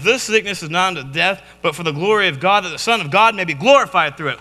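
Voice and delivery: lightly mocking scripture quote; incredulous quoting. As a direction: rattle the verse off as baffling talk. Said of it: "Who talks like that?".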